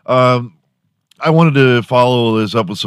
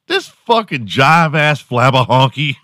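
louder, hammed-up trash talk; mock angry insult; 5 semitones higher, 3 dB louder than usual. Trying out his new slur on an imagined guy, mock angry. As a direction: spit the insult out for fun.

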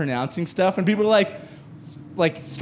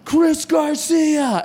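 hyped event announcer; 8 semitones higher than usual. Retold or imitated. Host to the gaming crowd, booming hype announcer. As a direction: sell the comic like an arena announcer.

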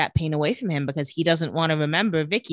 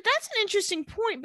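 much higher, prissy mock voice; prim Anna; 4 dB quieter than usual. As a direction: play it prim and pointed.

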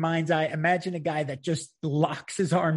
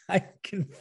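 higher-pitched retold yell, breaking into laughter; mock yell; 5 semitones higher, 4 dB quieter than usual. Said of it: "he's yelling at me".

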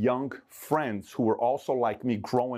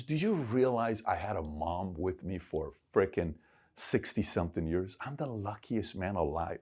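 hushed and tearful; 3 semitones lower, 6 dB quieter, slower than usual. Retold or imitated. Father grieving mother's death.

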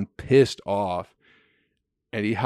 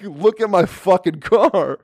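slow, high, loud yell; hammed-up furious shout; livid; 9 semitones higher, 6 dB louder than usual. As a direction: imitate an enraged dad hollering about damage. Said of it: "He's fucking livid".

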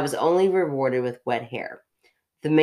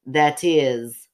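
put-on Russian accent. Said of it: "still your Russian accent".

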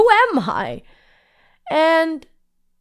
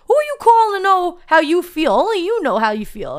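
emphatic challenge; 5 semitones higher, 3 dB louder than usual. Retold or imitated. Healer challenges her in retold talk.

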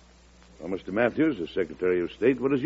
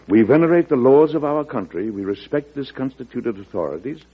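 a formal reading of the letter, raised at the start; reading a letter aloud; 4 semitones higher than usual. Retold or imitated. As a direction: read it out to the gentlemen like a declaration. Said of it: "I would like you to hear a passage".

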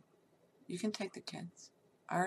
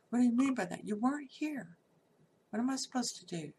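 sharp retold comeback, louder at the start; retold angry retort; 3 semitones higher, 5 dB louder than usual. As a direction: snap back at the husband, then settle a little. Retold fight with cheating husband.

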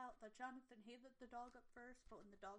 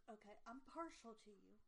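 baffled confusion. Retold or imitated. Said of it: "I'm just like".

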